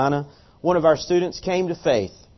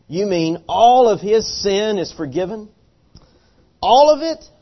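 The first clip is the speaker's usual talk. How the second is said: rising outraged disbelief, much higher on the end; indignant disbelief; 5 semitones higher, 4 dB louder than usual. Retold or imitated. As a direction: squeak out shocked disbelief. Roommate's indignant quote.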